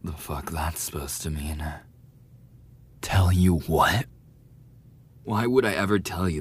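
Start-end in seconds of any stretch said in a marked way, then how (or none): 3.0-6.4 scoffing retort. Acted. Bully snaps back at question.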